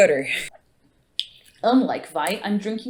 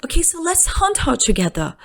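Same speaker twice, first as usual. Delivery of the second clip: bad British accent; 5 semitones higher than usual. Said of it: "my pathetic attempt at a British accent".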